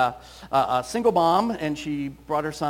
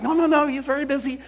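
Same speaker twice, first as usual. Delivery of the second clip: higher, louder imitated flustered mother; a hammed-up panicky no, no, no; panicked mom; 9 semitones higher, 6 dB louder than usual. Mother panics as her toddler demands to talk. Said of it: "the mom was panicked".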